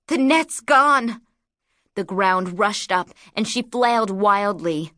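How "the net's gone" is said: high, loud, panicked shout; panicked cry. Acted. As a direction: cry out in sudden terror. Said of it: "her joy flashed into panic".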